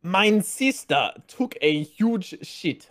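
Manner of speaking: slow mock German accent; slow, playful fake German accent. Shown as a demonstration. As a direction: drag out the line in a hammed-up German accent. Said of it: "That's pretty good".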